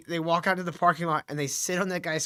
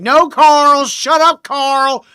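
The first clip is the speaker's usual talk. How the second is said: loud pretend shout at Carl; loud, higher mock yell; 5 semitones higher, 13 dB louder, slower than usual. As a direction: bark it at him to be mean. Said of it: "Just be like".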